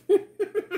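burst of laughter. Real, not acted. Laughs at burrito idea.

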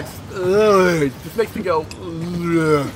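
normal talking voice

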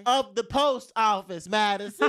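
loud, slow, disbelieving; exasperated. Real, not acted. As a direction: stretch it out in outrage. Exasperated retelling to friend.

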